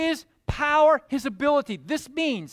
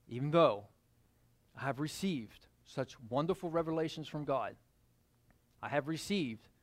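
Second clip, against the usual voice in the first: soft, low recitation of Paul; quiet scripture reading; 8 semitones lower, 7 dB quieter, faster than usual. Acted. Preacher quietly reads Paul's letter to the church. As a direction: read it gently, almost to yourself.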